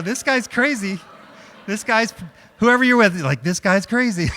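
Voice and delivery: high, loud, laughing through the words; laughing line. Shown as a demonstration. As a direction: say it while cracking up. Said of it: "look at your partner and go".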